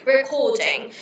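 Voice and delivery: British-accented RECORDING. Shown as a demonstration. Showing how British speakers say recording, British accent. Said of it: "In the British accent, we say".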